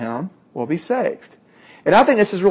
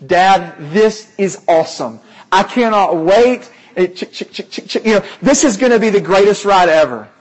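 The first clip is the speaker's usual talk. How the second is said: louder, quicker, a lightly voiced thrilled boy; excited kid; 3 semitones higher, 5 dB louder than usual. Six-year-old telling his dad the ride will be awesome, lightly voiced excitement. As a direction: mimic a little boy who can't wait for the ride. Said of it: "The six-year-old goes".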